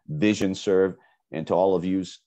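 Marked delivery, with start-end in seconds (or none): 1.5-2.2 New Jersey accent. Real, not acted. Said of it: "like a New Jersey accent".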